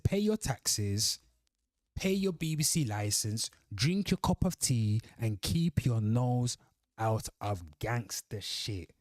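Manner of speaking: slow, emphatic read-out of a comment; deliberate proclamation with drawn-out phrase endings; reading comment aloud. Real, not acted. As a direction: declaim it slowly, phrase by phrase. Resumes reading own comment.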